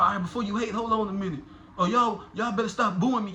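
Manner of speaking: mock crowd callout; hammed-up plea to the booing crowd; imitating the battler. Imitating the battler telling the crowd to stop booing. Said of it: "you tell a nigga in the crowd".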